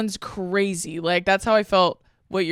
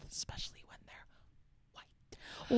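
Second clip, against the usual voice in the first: barely audible whisper; hushed, conspiratorial aside; 19 dB quieter than usual. Real, not acted. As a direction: slip it in under your breath. Hushed aside about white privilege.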